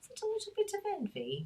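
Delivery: put-on English accent with very high-pitched voice. Quoting a favourite line, in an english accent. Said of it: "Got to say it in an English accent".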